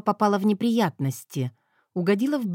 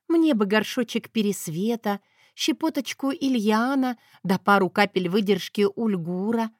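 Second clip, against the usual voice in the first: sweet innocent sigh; 3 semitones higher than usual. Acted. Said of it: "попросила со вздохом и снова невинно захлопала".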